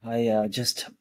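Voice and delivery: out of breath after an ice plunge; breathless, catching breath; heavy breathing. Real, not acted. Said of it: "I'm breathing hard".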